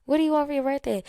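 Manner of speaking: high, light mock-friendly asking voice; high voiced fan asking about a birthday gift. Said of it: "some people were reaching out like".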